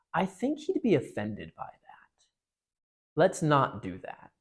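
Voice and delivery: slow, breathy whisper of caution; a retold half-whisper warning; hushed whisper. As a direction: whisper it like he'd be overheard. Eustace hushing Jill about the seance.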